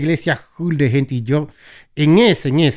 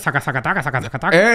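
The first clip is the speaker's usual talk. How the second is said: sílabas repetidas imitando lenguas; remedo de lenguas; faster than usual. Retold or imitated. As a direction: imita con ligereza a quien habla en lenguas. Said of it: "eso cuando hablan en lengua". (parodia leve de hablar en lenguas)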